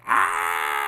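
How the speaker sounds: half-hearted imitated scream; mild pretend shriek; mock scream. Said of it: "And she screams".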